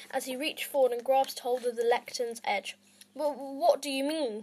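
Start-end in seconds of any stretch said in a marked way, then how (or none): 3.1-4.4 nervous stammer on the first word; stuttering. Acted. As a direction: stumble over the start. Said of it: "he stuttered".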